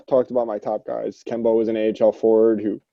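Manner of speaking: talking through hiccups; words broken by hiccups. Real, not acted. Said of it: "sorry, I'm fucking hiccuping".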